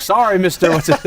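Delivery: put-on high, loud little-boy voice; meek child answering an elder; sheepish kid apology. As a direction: act out a scolded kid saying sorry. Matthau quoted apologizing to father.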